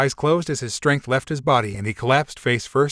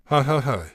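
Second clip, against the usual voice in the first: mocking laugh. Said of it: "as he continued laughing".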